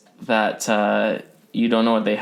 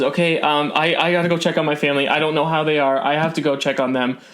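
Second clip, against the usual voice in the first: higher, fast, hurried worried woman; frantic shopkeeper; 4 semitones higher than usual. Acted. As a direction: rush off to check on family. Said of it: "looks a little frantic".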